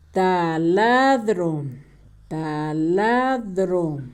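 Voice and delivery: "Taladro" very slow and low, in syllables; low, drawn-out dictation of "Taladro"; sounding out. Shown as a demonstration. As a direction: stretch "Taladro" out for someone writing it down. Sounds out word while writing.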